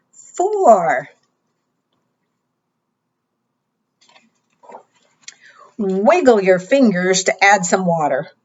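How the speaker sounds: bright, sing-song storytime voice; kids show host. Acted. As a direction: read it like a preschool teacher. Reading interactive book to children.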